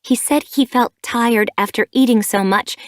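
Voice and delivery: grieving mate's furious accusation; angry. A narrator's reading. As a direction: lash out at the one to blame, rising. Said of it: "Anger flashed in her eyes".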